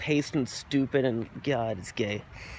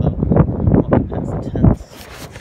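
drawn-out yell; 8 dB louder, much slower than usual. Acted. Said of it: "I'm walking past the tents, bro".

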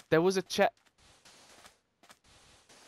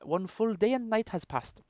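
higher-pitched, badly faked Welsh; attempted Welsh accent; 5 semitones higher than usual. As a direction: keep trying Welsh as you read. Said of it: "I can't do Welsh either".

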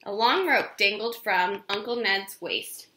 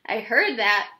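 calling out; 4 dB louder than usual. Acted. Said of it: "called Uncle Ned".

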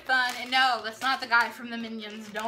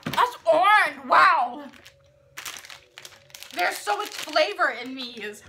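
excited; 4 semitones higher, 7 dB louder, slower than usual. Real, not acted. Reacting to strong flavor.

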